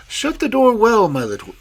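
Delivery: rough wolf voice before the disguise; wolf slipping out of his granny voice; wolf forgetting his disguise; plain wolf voice. Acted. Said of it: "clears throat, then restarts".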